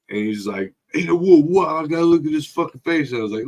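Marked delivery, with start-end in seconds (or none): 0.9-3.1 high, quick mock alarm; retold startled protest. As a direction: imitate someone suddenly taken aback. Retold startled reaction to the photo.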